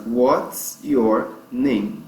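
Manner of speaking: word by word, very slow; slow teaching demo. Shown as a demonstration. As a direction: spell out the phrase slowly for learners. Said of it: "dentro dessa frase". (frase bem devagar, palavra por palavra)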